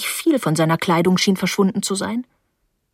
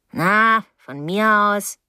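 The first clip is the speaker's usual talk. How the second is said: drawn-out, huffy woman's voice; offended older neighbour; 2 semitones higher, much slower than usual. Acted. Mrs Deering gives up at the door, huffy. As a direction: give up in a huff.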